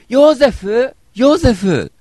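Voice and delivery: loud, high theatrical calling; Ōta of Bakushō Mondai. Acted. Comedian's bit calling Joseph about new Mozart, hammed-up cry. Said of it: "これ爆笑問題太田のパクリ".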